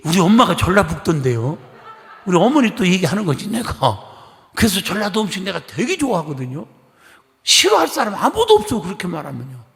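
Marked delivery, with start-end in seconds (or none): 0.0-1.6 laughing quote. Retold or imitated. Retold hometown chat. 7.4-8.8 higher and louder, full conviction; emphatic exclamation. Real, not acted. Preacher to congregation, loud excited exclamation.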